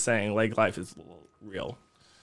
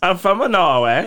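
seance medium; slower than usual. Pretend. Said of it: "I'm channeling the spirit of a Norwegian".

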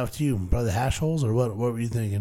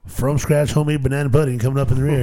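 race announcer; 5 dB louder, faster than usual. Pretend. Continuing horse race call.

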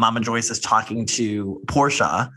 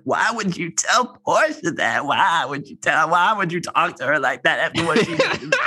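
imitated indignant confrontation; 4 semitones higher than usual. Acting Kandi confronting her mother.

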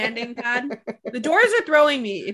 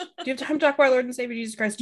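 door-to-door missionary; much faster than usual. Pretend.

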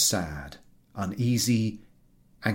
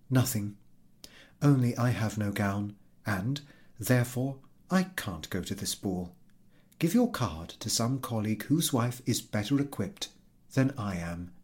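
softer, subdued wife; holding back tears; calm voice; 3 dB quieter than usual. Acted. Wife to husband after crying, softer and calm. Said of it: "replied in a calm voice".

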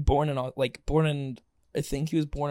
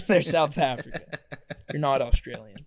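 laughing through quote. Retold or imitated. Quoting teacher while laughing.

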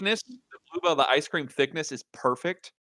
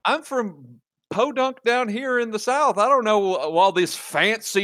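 mock hick whine; 8 semitones higher than usual. Mock self-deprecation.

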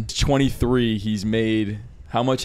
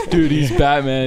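laughing; 3 semitones higher, 4 dB louder, slower than usual. Real, not acted. Laughing at the Batman joke.

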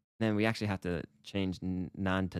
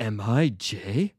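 slow, louder, hammed-up self-doubt; mock identity crisis; 7 dB louder, much slower than usual. Teacher acting out a sudden identity crisis, mock anguish. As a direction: ask it like a comically tormented soul. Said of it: "having this identity crisis where I'm like".

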